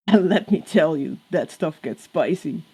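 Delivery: laughing through a sly tease; cackling. Acted. Crowley teases angel about fan fiction, cackling. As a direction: chuckle out the spicy bit. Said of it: "Crowley cackled".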